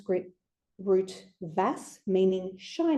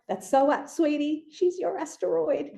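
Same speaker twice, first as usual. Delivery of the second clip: put-on higher-pitched, sweet talk to a child; doting reply; 6 semitones higher than usual. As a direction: retell it as fond, lifted encouragement. Retold reply to friend's young child.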